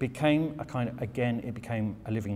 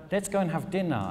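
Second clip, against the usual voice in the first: higher and louder, awestruck; starstruck American; 8 semitones higher, 4 dB louder than usual. Retold or imitated. American couple quizzing the Brit about royalty, high awestruck. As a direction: ham up the starstruck fan. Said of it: "And they're like".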